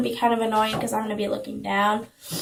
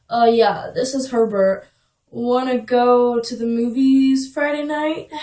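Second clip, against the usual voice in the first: a hint of an awkward date invite; lightly voiced boy caller; 4 dB louder than usual. Herbert phoning to ask for a date, lightly voiced. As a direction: drag out the invitation slightly. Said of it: "He said".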